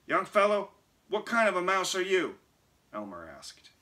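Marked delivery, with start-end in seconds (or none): 0.1-2.4 high, loud little mouse voice; old mouse voice. A narrator's reading. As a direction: squeak like a lively old mouse. Old mouse Elmer speaks.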